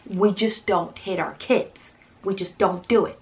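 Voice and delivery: slow, even and firm on we just don't hit; telling the officer firmly; firm, slow insistence. Retold or imitated. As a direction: lay down the point calmly and firmly. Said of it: "And I said".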